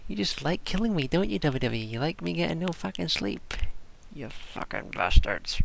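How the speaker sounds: loud, high hammed-up rant at WWE; mock angry rant. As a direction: scold WWE for keeping him up, half-joking. Mock rant at WWE about sleep.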